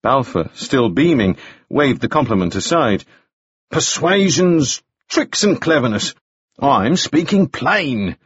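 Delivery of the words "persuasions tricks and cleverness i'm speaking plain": slow, higher-pitched, stretched words; breezy dismissal. A narrator's reading. Balfour waves Moody's compliment aside, breezy and drawn-out. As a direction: wave it aside at a leisurely pace.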